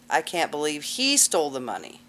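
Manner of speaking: "he" stressed against the rest; single out the word "he". Shown as a demonstration. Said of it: "everybody emphasizing a different word".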